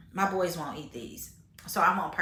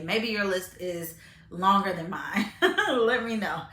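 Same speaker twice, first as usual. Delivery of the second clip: laughing; slower than usual. Real, not acted. Laughing sign-off to viewers.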